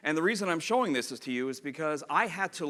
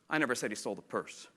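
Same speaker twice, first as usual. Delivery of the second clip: purse picked out at the end; emphasize purse as the contrasted word; stress on purse; 4 semitones lower than usual. Shown as a demonstration. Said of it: "they have six different meanings".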